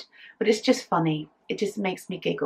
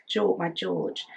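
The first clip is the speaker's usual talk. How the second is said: ordinary talk, nothing marked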